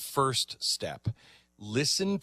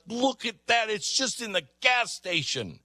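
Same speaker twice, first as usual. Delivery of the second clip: mock amazed Australian; 8 semitones higher than usual. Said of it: "She's like".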